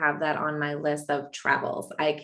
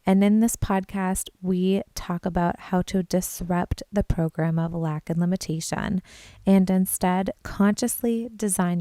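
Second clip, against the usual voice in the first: podcast intro read. Acted. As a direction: present the show like a radio host. Recorded podcast intro over music.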